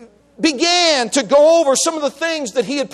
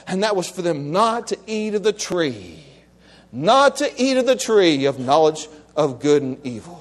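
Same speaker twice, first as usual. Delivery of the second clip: low, solemn sermon telling; grave preaching; 10 semitones lower than usual. Real, not acted. Preacher telling of Adam's one law, low and grave. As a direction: let it sink low and weighty.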